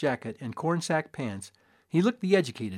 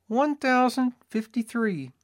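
assayer voice; 10 semitones higher, slower than usual. A narrator's reading. Assayer gives number.

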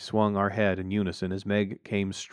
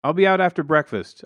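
loud call back; raised voice answer; yelling back; 8 semitones higher, 7 dB louder than usual. A narrator's reading. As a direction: shout the reply across. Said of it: "I yelled back".

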